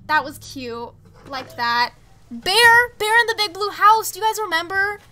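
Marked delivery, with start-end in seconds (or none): 2.3-5.0 loud, high shout of recognition; thrilled, booming recall; excited outburst. Real, not acted. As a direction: blurt it out loud and high, rallying fellow fans. Suddenly remembers another childhood show.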